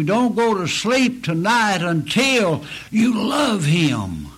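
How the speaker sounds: pleading, rising to a shout on him; pleading cry. Real, not acted. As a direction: beg them, then cry out him. Pleading with listeners to love Christ.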